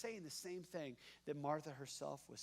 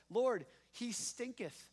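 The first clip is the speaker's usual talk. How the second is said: mock solemn King James; 6 semitones higher, 4 dB louder, slower than usual. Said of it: "it actually says".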